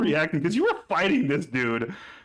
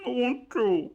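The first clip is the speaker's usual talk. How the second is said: put-on childish brute; 8 semitones higher than usual. Gus orders ale.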